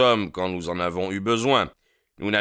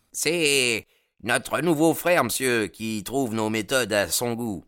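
member calling out; 5 semitones higher than usual. A narrator's reading. Member answers the chief.

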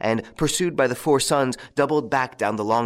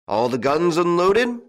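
calling out; 8 semitones higher, 5 dB louder than usual. A narrator's reading. Father calls to sons.

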